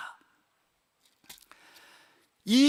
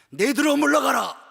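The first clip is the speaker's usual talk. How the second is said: raised, commanding banishment; stern rebuke; 3 semitones higher, 5 dB louder than usual. Acted. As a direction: order Satan away with force. Acts Jesus rebuking Satan.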